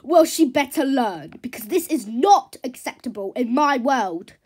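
loud, haughty telling-off; indignant. Acted. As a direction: lay down the law, affronted. Horse lays down the law.

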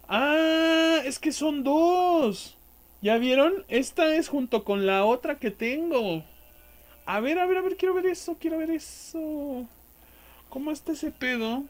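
high, eager voice; excited. Real, not acted. Gamer thrilled by his new paired weapon, high excited voice. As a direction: let it rise with excitement.

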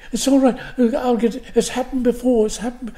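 a hint of Irish lilt; Irish accent. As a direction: reassure in a slight Irish accent. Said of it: "She had an Irish accent".

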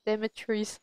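Demetrius with its ending said as "trees"; mispronounced name. Shown as a demonstration. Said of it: "auto-pronounce it as".

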